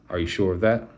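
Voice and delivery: nasal, nose held. A narrator's reading. Girl disguising her voice to the bound teacher, nose held. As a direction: speak with your nose held shut. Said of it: "holding her nose ... as nasal".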